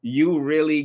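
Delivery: high, loud laughing burst into slow happy words; laughing through words. Real, not acted. To Miss Miko, laughing while thanking her. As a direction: laugh it out with joy.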